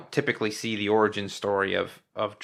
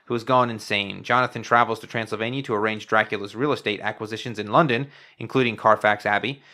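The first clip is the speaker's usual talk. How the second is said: even, measured plot summary read; steady scripted recap; synopsis read-out. Real, not acted. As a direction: read it aloud as a prepared film synopsis.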